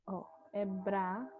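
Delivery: Bra-zil split into two syllables; teacher splitting Brasil into syllables; syllabified word. Shown as a demonstration. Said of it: "Agora, Brasil aqui".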